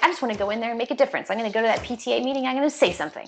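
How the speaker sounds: very fast, eager self-pep talk; eager resolve. Retold or imitated. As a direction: rattle it off like a mom fired up. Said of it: "you're just like".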